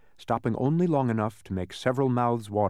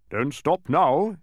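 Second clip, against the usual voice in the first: drawn-out, louder insistence; insistent; 5 semitones higher, 6 dB louder, much slower than usual. A narrator's reading. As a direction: urge them on, higher and slowly. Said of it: "he insisted".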